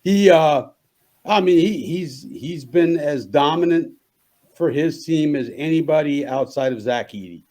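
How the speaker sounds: rough, just-woke-up voice; morning voice. Real, not acted. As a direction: talk through a froggy morning throat. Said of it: "Sorry, it's morning voice".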